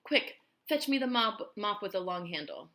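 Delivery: high, slow, loud disgusted aunt. A narrator's reading. Aunt demanding the mop to kill a spider, disgusted high voice. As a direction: drag out the disgust, then order the mop. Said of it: "she cried".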